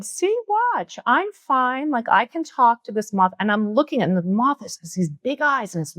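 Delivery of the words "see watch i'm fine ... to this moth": excited show-off. Retold or imitated. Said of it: "And I'm saying".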